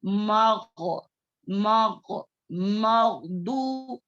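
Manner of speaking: slow drawn-out मगदू with a heavy ghain; teacher modelling; recitation demo. Shown as a demonstration. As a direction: model मगदू slowly, syllable by syllable. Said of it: "हम इसको कैसे पढ़ेंगे?".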